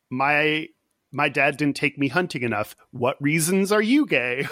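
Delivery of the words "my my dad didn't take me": ordinary delivery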